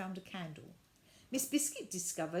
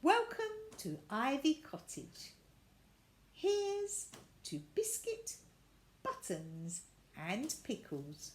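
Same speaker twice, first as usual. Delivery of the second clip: slow, raised toast; warm toast; 5 semitones higher, slower than usual. Acted. Miss Biscuit toasting her guests, slow and warm. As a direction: lift your glass slowly.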